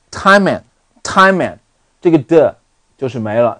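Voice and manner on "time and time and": "time and" run together as "ti-man", d dropped; slow, higher demo linking m onto "and"; linked reading. Shown as a demonstration. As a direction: join "time and" into one unit, no final d. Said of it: "跟我一起来连读啊".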